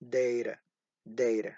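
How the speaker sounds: "data" low and soft, ending in an unstressed uh; plain schwa ending. Shown as a demonstration. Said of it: "There is no er".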